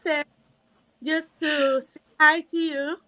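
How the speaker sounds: breathless after rushing in; out of breath. Real, not acted. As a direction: speak while still winded. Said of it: "let me catch my breath again".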